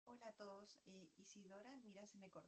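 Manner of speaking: faint, far-off voice on a weak connection; barely audible. Real, not acted. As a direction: voice barely coming through the line. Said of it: "se escucha bajito". (apenas audible)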